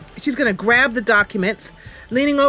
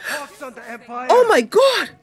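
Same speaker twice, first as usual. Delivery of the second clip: high, loud frantic cries for help; shrill terrified screams for help; panicked screams; 12 semitones higher, 5 dB louder, slower than usual. Acted. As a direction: scream like she's being chased down. Kenlin attacked, screaming for help.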